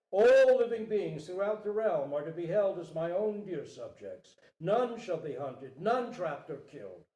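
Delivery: grand, loud proclamation to the court; royal decree. Acted. King proclaims protection of all beings to courtiers, loud. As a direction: announce it to the whole court.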